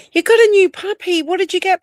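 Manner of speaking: high, loud puppy delight; excited about a puppy. Real, not acted. Greeting a viewer who got a new puppy, excited and high. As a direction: squeal it out over the new puppy.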